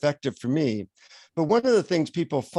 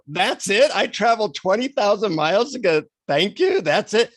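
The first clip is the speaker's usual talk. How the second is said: higher-pitched, incredulous protest; indignant disbelief; 6 semitones higher than usual. Retold or imitated. Let-down traveller protesting to the guru, indignant disbelief. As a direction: demand it as if badly short-changed.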